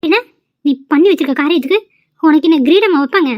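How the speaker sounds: mock her with a sneer; sarcastic scolding. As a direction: friend scolds Reji sarcastically, rising in anger. Friend mocks her angrily.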